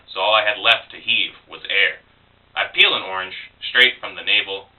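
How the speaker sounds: lightly measured verse recital; poetry reading. Acted. Poet reading a pregnant girl's persona poem, measured recital. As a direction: read it as a poem, phrase by phrase. Reads second poem aloud.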